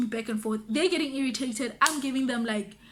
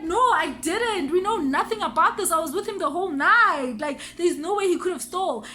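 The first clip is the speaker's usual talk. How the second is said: higher-pitched retold protest of innocence; insistent denial; 4 semitones higher, 3 dB louder than usual. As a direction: plead your case emphatically, pitch raised.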